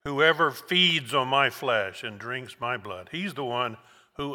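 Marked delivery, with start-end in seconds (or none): 0.0-3.1 slowed down, back at normal pitch; slow, weighty reading. Shown as a demonstration. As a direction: let each word sink in slowly. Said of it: "he says it again".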